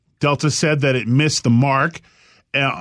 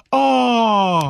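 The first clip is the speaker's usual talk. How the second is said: put-on high, cooing baby talk; cooing dog lover; 8 semitones higher than usual. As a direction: coo at the dog. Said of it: "everyone goes".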